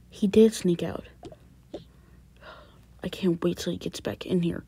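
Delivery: seething hushed threat; angry whisper. Acted. Dad in the empty room, whispering angrily. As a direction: whisper your irritation.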